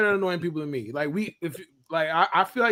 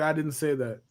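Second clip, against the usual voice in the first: quiet disclaimer; 4 semitones lower, 7 dB quieter than usual. Real, not acted. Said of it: "I just wanted on the record".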